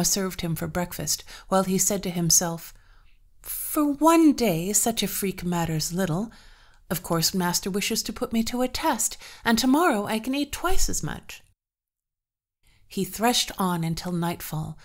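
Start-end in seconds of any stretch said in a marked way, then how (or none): 3.4-11.4 lightly voiced servant boy; brushing off his hunger; young farmhand. Peter talks to himself.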